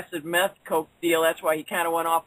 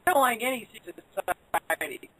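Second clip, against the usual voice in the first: breaking up; slower than usual. Real, not acted. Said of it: "You're, you're breaking up real bad".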